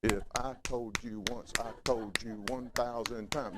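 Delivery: lightly voiced scolding mama, slow and spaced. Preacher imitating his mama's scolding, slow and deliberate. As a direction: spank every syllable like mama did. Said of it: "my mama was one of them syllable spankers".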